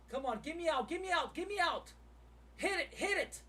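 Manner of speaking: real high-pitched urgency; frantic urging. Real, not acted. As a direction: urge it on, desperate to get out. Urging trade to exit.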